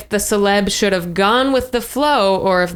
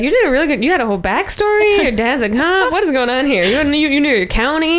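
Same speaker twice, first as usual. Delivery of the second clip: mock impressed; 5 semitones higher than usual. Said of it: "I would be like".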